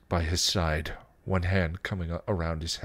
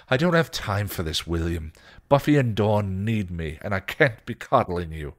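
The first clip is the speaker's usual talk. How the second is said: firm, mildly raised reprimand; scolding; 4 dB louder than usual. Acted. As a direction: scold with a touch of impatience. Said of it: "Giles scolded".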